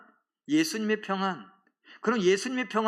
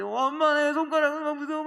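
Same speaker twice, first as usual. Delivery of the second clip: a son's scared whimper, pitched much higher; frightened son's voice; 8 semitones higher than usual. Retold or imitated. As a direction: cry to mom in fear like the fake son on the phone. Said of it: "뭐 이렇게 얘기하는데". (높은 목소리로 겁먹은 아들 흉내)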